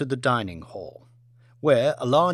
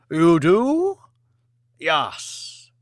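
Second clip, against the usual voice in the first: higher, louder surprised question; surprised Lord; 3 semitones higher, 5 dB louder, much slower than usual. Acted. Lord Martin surprised at Lee's offer, higher and louder. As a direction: sound caught off guard. Short exchange.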